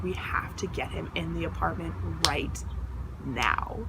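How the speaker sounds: quiet, low-pitched imitation of a friend; deadly serious, dropped low and soft; low, grave urgency. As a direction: lay down a serious order under your voice. Friend gives urgent order, retold.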